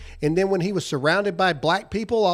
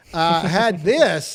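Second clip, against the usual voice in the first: drawl; 3 semitones lower, much slower than usual. Pretend. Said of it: "you guys like how I did that?".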